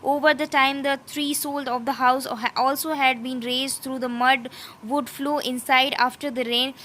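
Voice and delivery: slow, deliberate reading of English text; slow textbook reading. Acted. Teacher reading the textbook passage to students, slow and careful. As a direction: read it out word by word, slowly.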